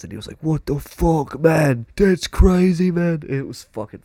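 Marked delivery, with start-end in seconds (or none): 0.4-3.2 higher-pitched imitation of amazement; retold astonishment, British bloke; amazed. Amazed British friend acted.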